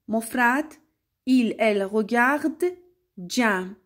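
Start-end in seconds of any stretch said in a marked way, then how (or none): 1.3-2.6 "il، elle regarde" slowly, ending on the d; careful model pronunciation. Shown as a demonstration. Teacher showing plural sounds like singular, careful model pronunciation. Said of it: "به تلفظ من دقت کنید".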